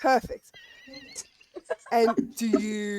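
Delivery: put-on slow, light Russian accent judge. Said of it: "The Russian accent just really showing it".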